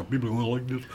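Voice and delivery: a quick, sketchy Russian accent put on for a laugh; comedy-sketch Russian accent, lightly done; mock Russian accent. Shown as a demonstration. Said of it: "if we all talk like this".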